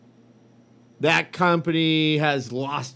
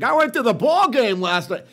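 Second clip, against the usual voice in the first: lightly mocked, higher Boston accent; John Krasinski's Boston accent; 5 semitones higher, 3 dB louder than usual. Mocking an actor's attempt, hack Boston accent. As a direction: put on a slightly fake Boston accent. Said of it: "John Krasinski gets on and he's like".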